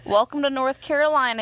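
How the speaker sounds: loud cheery slogan read; announcer voice. Pretend. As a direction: say it like a welcome sign. Mock tourism slogan.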